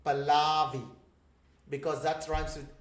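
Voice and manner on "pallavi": Pallavi stressed on the middle, pə-LAH-vi, said louder; Australian way. Shown as a demonstration. Teacher imitating how Australians say Pallavi, louder. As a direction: stretch the middle of Pallavi like Rebecca. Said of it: "usually they say".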